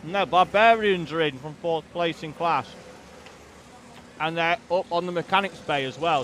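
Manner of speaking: talking with a mouth full of chicken; chewing chicken between words. Real, not acted. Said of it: "Sorry for talking with my mouth full of chicken".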